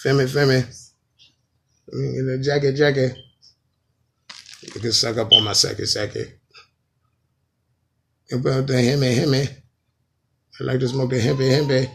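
lightly mimicked dancehall word-doubling; a hint of parody in the paired nonsense words; a dancehall singer. Comic mocks repetitive singer, lightly put-on dancehall voice. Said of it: "saying the same thing twice".

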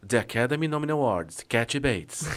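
lightly voiced low trailer narrator; a hint of trailer announcer. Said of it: "Aí vem". (leve voz de trailer)

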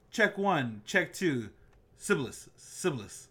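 mock microphone check, punched and deliberate; Tom Hanks sound-check routine. Podcast host doing audio checks, mock sound-check routine. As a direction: act like a soundman testing the mic. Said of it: "that Tom Hank, uh, routine on Saturday Night Live".

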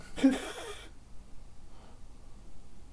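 breathy, voiceless laugh; soft wheezy laugh; quiet laugh. Real, not acted. Laughing at the assistant not saying anything, quiet and breathy. Amused at silent search result.

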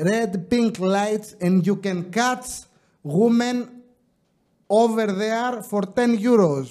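slow put-on British English; British accent. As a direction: give directions in a British accent. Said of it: "Όταν τα λέω με βρετανική".

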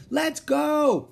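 very high, drawn-out shout; urgent cry. A narrator's reading. Girl to dawdling brother from treehouse, crying out. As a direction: shout impatiently to break his trance. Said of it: "cried Annie".

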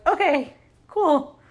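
high, drawn-out easy acceptance; blithe mock agreement. Everyone blithely agrees, retold.

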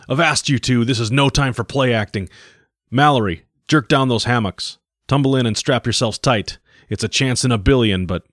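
bellowing captain. Acted. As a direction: command them to strap in. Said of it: "bellowing, commanding".

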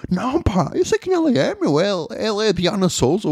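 high, sing-song mock voice; mocking imitation. Comedian mocks the teen to his face, high mock. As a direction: ham it up, mocking the kid. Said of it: "E eu".

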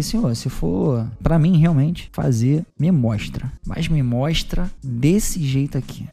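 slowed, hushed prayer voice. Retold or imitated. Retold prayer to God.

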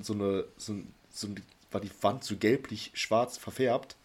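slowing down with a sneeze coming; fighting off a sneeze mid-sentence; holding back a sneeze. Real, not acted. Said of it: "ich muss niesen". (Niesen unterdrückend)

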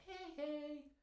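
high grandma greeting. Retold or imitated. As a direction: greet the little girl like a sweet grandmother.

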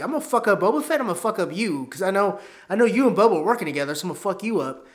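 tough henchman. Acted. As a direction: play the thug vowing revenge. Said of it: "He's like".

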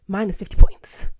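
breathy loud whisper; stage-whisper the verdict. Real, not acted. Whispered aside.

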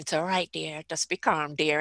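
calm a struggling stranger kindly, low and soft; mother of fifteen soothing me, low soft reassurance; gently reassuring. Retold or imitated. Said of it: "and she's just saying".

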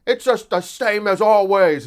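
mock Daily Wire outrage, high and loud; mock outraged pundits. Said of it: "all the Daily Wire people are like".

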